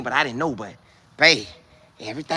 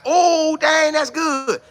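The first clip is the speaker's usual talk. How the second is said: much higher, slow stunned oh dang; mock amazement; 10 semitones higher, much slower than usual. Viewer behind the broadcast, slow high mock amazement. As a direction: imitate a fan amazed at the TV. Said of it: "looking at it like".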